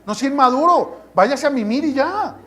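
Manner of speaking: annoyed scolding. Retold or imitated. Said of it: "A mí me molesta, le digo".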